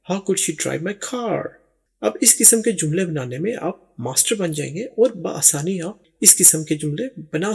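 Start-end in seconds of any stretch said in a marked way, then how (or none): 0.1-1.4 slow dictation. Shown as a demonstration. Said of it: "देखिए कितना आसान है".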